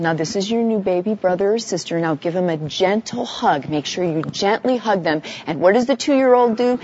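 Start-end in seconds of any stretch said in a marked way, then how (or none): 0.0-5.2 put-on soft, coaxing parent talking to a toddler; gentle parent voice. Parent softly coaxes toddler to hug the newborn, gentle and soft. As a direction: coax the toddler softly, as if showing the gentleness you want. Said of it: "you say to your two-year-old".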